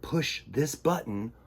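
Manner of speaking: hushed whisper; conspiratorial whisper. Acted. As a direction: whisper it to the kids.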